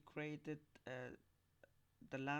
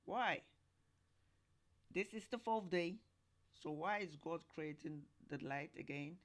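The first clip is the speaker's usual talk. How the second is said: puzzled self-question; 4 dB louder than usual. Pretend. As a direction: voice the confused reader's question. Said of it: "then you ask yourself".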